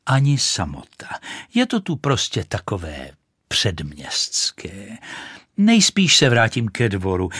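pompous firework lady; haughty rocket. Acted. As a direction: look down your nose at the duck. Rocket's haughty speech to duck.

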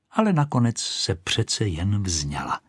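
plain reading voice

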